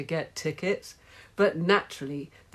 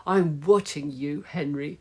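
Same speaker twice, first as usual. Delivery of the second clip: snapped. Acted. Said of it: "she snapped".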